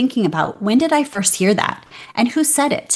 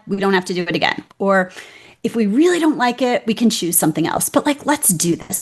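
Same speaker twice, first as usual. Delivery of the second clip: encouraging pep talk. Retold or imitated. Guest retells how she coaxes her scared self, gently encouraging. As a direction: coax a scared child into trying. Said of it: "I talk to myself like that".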